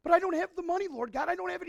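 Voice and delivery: high, loud plea; preacher voicing a pleading believer, high and loud; pleading sinner. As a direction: beg like the broke sinner.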